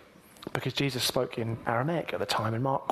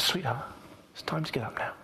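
gentle waking call; 5 dB quieter than usual. Retold or imitated. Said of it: "with this beautiful gentleness".

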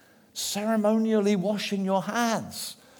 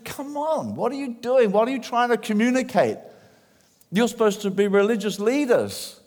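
exasperated rebuke; 6 semitones higher than usual. Retold or imitated. Jesus rebukes the leaders.

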